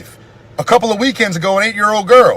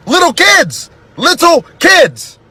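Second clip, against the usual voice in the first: much higher, second one slow and drawn out; anguished cry; 8 semitones higher, much slower than usual. Real, not acted. Anguished repetition in rant.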